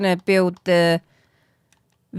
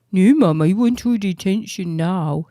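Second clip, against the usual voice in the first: Bosley. Acted. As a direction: put on a needy dog voice. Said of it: "That's the Bosley voice".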